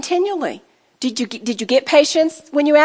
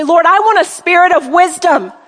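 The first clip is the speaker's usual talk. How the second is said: modelled prayer; 4 dB louder than usual. Shown as a demonstration. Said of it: "See how you could take that and say".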